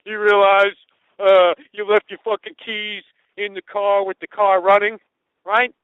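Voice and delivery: mock cop lecture, loud enough for the room; loud and showy. Meter maid lectures the narrator in front of everyone, loudly. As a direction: announce it so everybody hears. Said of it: "Nice and loud".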